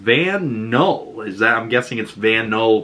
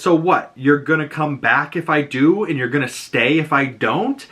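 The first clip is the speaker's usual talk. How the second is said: mildly indignant, slightly raised pitch; retold anger; 4 semitones higher than usual. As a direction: act out a testy challenge, lightly. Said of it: "now she's angry all over again".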